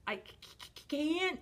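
stuttered fearful mock sob; sobbing, acted. A narrator's reading. Scared Tyro answers Tiny, stuttering storybook sob. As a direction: stammer it out, rising to a high pitch. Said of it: "Tyro sobbed".

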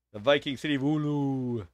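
put-on Viking place name in a botched Scandinavian accent; hammed-up, poor Scandinavian accent; bad Scandinavian accent. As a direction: try a Scandinavian accent and miss. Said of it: "not even close to the correct accent".

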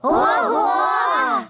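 amazed exclaim. Acted. Amazed at Emily's loud shout.

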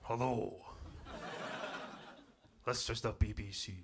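slow Scottish caller, deliberately broad; thick Scottish accent. Acted. Ringing a complainer about Scottish accents, broad Scottish. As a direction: lay on the Scots for the caller.

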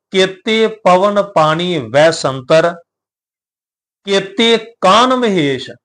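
slow, measured recitation of the verse; scripture recitation. Shown as a demonstration. Teacher reciting Gurbani to the sangat, slow and measured. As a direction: intone the line with care. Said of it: "ਮਹਾਰਾਜ ਜੀ ਦਾ ਵਚਨ ਹੈ".

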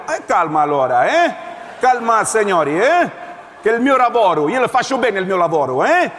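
indignant officer. Acted.

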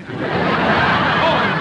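loud, drawn-out call. Real, not acted. Guesser calling the clue word to teammates, loud. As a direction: stretch it out so the whole team hears.

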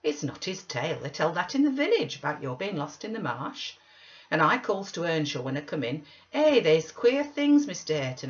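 gossiping Zillah. Acted. Zillah recounts her words to Earnshaw, gossiping. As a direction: tell the tale eagerly, with loud bursts. Narrator voices Zillah's tale.

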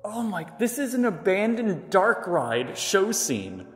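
slow awed voice with room echo; echoey room. Real, not acted. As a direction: marvel aloud in an echoing hall. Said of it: "listen to the echo in here".

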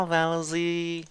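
"Melody" said as "Melozy". Shown as a demonstration. Teacher showing students the Z swap. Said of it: "troca o D pelo Z".

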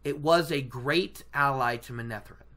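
lightly voiced solemn guide; solemn storyteller. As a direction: intone it gravely, falling away at phrase ends. Acting Moiraine's solemn lore.

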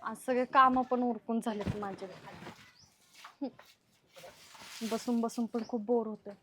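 soft, low bored muttering to oneself. Acted. Housewife alone with nothing to do, bored. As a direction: talk quietly and low, weary with boredom. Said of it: "आज लयच bore व्हायला लागले".

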